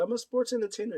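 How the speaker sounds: high-pitched mimicked boast; mock boast. Quoting Garcia the sports entertainer, high mock boast.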